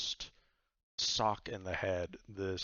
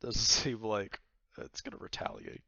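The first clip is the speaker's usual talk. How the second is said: amused; 3 semitones higher, 6 dB louder than usual. Real, not acted. Amused while answering the player.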